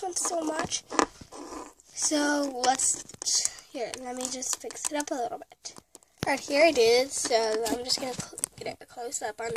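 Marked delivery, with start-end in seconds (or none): 3.7-5.7 quiet unvoiced whisper. Real, not acted. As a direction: hush it while you fiddle. Fixing toy, whispered aside.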